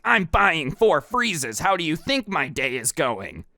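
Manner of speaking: mock testy retort, drawn out at the start; slow, pointed start to an acted comeback; snapping back. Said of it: "snaps back at him".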